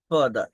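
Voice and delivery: ফাদার with the final r dropped; British ফাদার, r unsounded; British father, no r. Shown as a demonstration. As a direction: repeat ফাদার the British way, without the r. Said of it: "এরকম বলে".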